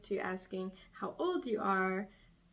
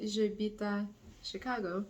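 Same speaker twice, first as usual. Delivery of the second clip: French accent. Shown as a demonstration. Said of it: "with the best French accent".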